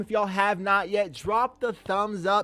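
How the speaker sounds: loud, high-pitched rallying call, easing off toward the end; excited hype. Real, not acted. Streamer urging viewers to like and subscribe, in an excited shout-out. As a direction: hype up the crowd like a streamer on a roll.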